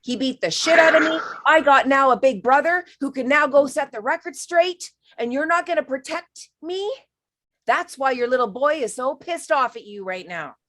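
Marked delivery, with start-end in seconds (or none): 0.0-6.9 put-on loud, indignant protest from a hurt boy; angry child outburst. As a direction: throw it back at Dad, furious and betrayed. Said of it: "And he's like".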